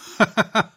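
a sudden high hearty laugh from the trunk. A narrator's reading. The trunk laughing at the bark, high laugh. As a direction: burst out laughing, high and loud. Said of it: "Lachte der Stamm".

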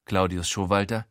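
ordinary delivery

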